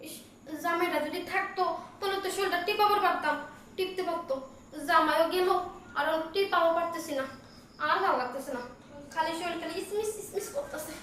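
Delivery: soft grumble about aches; weary complaint. Acted. Woman alone complaining of her aching body, soft weary grumble. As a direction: complain softly to yourself.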